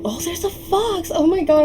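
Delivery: high excited squeal; sudden delighted surprise; surprised. Real, not acted. Spots a fox in game.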